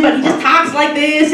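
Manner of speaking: assistant voice. Shown as a demonstration. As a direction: slip into the assistant's breezy voice. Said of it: "he kinda talks like this".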